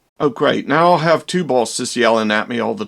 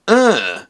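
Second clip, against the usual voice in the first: a short dull grunted uh; a lightly voiced monster grunt; imitated grunt; 6 semitones higher than usual. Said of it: "I'm pretty sure he said".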